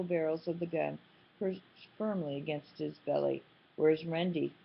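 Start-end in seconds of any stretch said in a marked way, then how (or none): 3.8-4.5 menacing drawl. Acted. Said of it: "Clint drawled menacingly".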